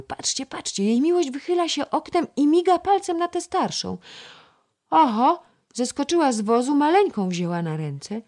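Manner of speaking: put-on girl's eager whispered-loud amazement; excited gossip. A narrator's reading. Girl at the window telling her friend, excited and high.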